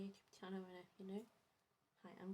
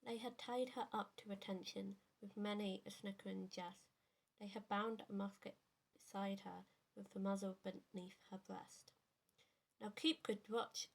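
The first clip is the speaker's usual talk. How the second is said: measured poetry reading with pauses between lines; poem recitation. Acted. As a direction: recite a narrative poem, line by line. Reads favourite poem aloud.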